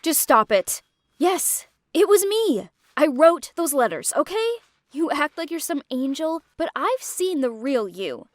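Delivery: bitter, cutting accusations; Aaliyah's angry confession. Acted. Aaliyah confessing to Lou, bitter and a touch angry. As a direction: spit out the betrayal. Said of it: "Aaliyah interrupted us".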